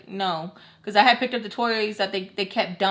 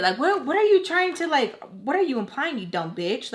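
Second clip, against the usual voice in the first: higher-pitched exasperated retort, retold; mad; 5 semitones higher than usual. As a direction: replay your annoyed disbelief, dropping off at the end. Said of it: "Like, I was so mad".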